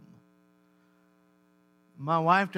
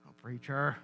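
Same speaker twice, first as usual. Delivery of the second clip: a hint of a listener's protest, softer; lightly voiced objecting listener; mock-complaining aside to the preacher; 7 semitones lower, 8 dB quieter than usual.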